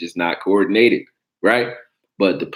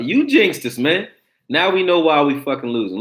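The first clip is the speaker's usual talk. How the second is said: jinxed; 8 semitones higher than usual. Real, not acted. Blaming friend's Steelers-fan girl.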